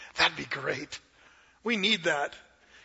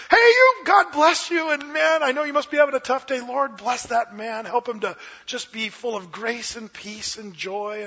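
yelled blessing; 4 semitones higher, 4 dB louder than usual. Acted. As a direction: start like road rage, settle into blessing. Driver shouts blessings instead of curses.

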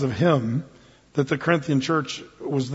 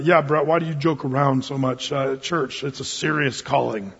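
lower, softer voice of a mild critic; disapproving churchgoer; 4 semitones lower, 4 dB quieter than usual. Acted. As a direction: quietly take the pastor to task, pitched down. Imagined churchgoer's objection.

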